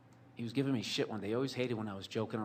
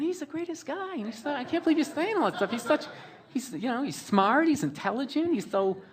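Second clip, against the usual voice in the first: high falsetto, loud and gushy; mock a smitten girlfriend in a squeaky falsetto; swooning over him, way up high and loud; gushing girlfriend; 13 semitones higher, 7 dB louder than usual. Imitates girlfriend gushing about dad.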